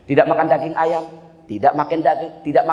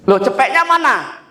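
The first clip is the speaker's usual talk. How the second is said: surprised question; 7 semitones higher, 5 dB louder than usual. Retold or imitated. Recipient asks where money went.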